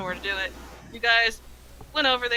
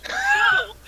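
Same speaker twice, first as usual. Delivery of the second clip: cracking mock shout; 6 dB louder than usual. Archmage voiced by the storyteller to the party, mock shout. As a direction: voice jumps way up into a hammed-up cry.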